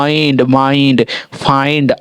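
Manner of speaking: slow rhyming आइंड, माइंड, फाइंड; vowel demo. Shown as a demonstration. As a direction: stretch the "eye" in आइंड and माइंड. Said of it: "आई, आई लग रहा है".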